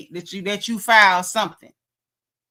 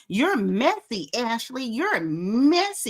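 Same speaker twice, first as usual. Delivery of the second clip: mock Stacey getting loud; 3 semitones higher, slower than usual. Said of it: "Stacey starts getting loud".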